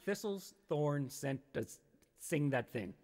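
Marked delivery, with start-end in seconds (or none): 0.0-1.8 "Thistlethorn" sounded out slowly, stumbling; slow careful tongue twister. Shown as a demonstration. Streamer struggles with a viewer's tongue twister, stumbling slowly. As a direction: pick through "Thistlethorn sent a" slowly. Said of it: "Try it".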